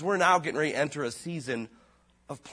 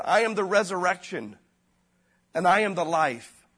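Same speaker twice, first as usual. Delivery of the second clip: higher and louder, I am the resurrection proclaimed; loud proclamation; 4 semitones higher, 5 dB louder than usual. Retold or imitated. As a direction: declare I am the life from the pulpit. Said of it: "Jesus Christ said".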